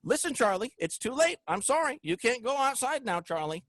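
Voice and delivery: high, sweet talking-to-a-pet voice; mock baby talk to a dog owner's pet Charlie. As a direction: coo at your little dog like he's a baby. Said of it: "you can say".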